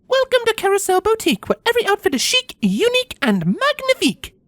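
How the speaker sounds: high sing-out greeting with a French touch; upbeat, slight French accent. A narrator's reading. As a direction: chant a shop welcome, faintly French. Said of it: "chanted in an upbeat voice with a hint of what sounded like a French accent".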